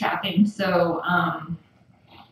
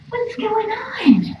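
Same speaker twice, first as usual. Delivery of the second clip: whisper; 13 semitones higher, 3 dB louder, slower than usual. Real, not acted. Cooing at cats in whisper.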